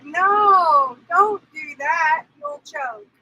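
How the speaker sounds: half-shouted warning to a friend; alarmed warning. Retold or imitated. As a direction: shout it out to stop her. Friend warning about the pill.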